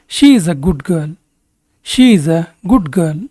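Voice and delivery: slow, measured English for learners; slow model sentence. Shown as a demonstration. Teacher models English for Kannada learners, slowly and deliberately. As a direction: say it slowly with spaced words.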